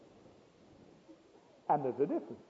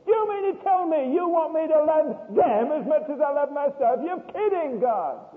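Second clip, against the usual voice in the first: loud, high disbelieving protest to God; incredulous protest; 10 semitones higher, 7 dB louder than usual. Retold or imitated. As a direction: argue with God in disbelief, rising.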